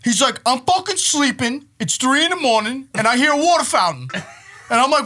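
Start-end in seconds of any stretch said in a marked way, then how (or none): 0.4-4.1 exasperated yell. Retold or imitated. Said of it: "Why you yelling at me?".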